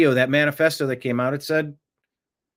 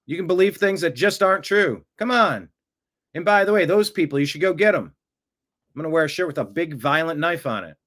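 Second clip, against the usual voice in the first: mocking welcoming invitation; 4 semitones higher than usual. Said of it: "what the people in Minnesota were saying".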